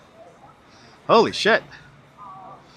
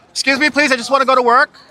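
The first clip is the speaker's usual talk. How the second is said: high polite voice; 5 semitones higher, faster than usual. Pretend. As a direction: sweetly beg to pass. Pushing through crowd, put-on voice.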